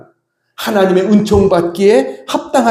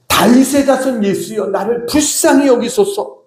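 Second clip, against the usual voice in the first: raised-pitch plea, only mildly shouted; imitated crying out; 4 semitones higher than usual. Preacher voices blind Bartimaeus begging Jesus for mercy, imitated cry. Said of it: "여기서 그가 부르짖은 것".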